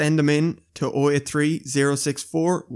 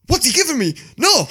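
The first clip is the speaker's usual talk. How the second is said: high baffled question and refusal; imagining being handed nothing in the night; 12 semitones higher, 5 dB louder than usual. Retold or imitated. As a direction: sound puzzled and put off. Imagined confused reaction.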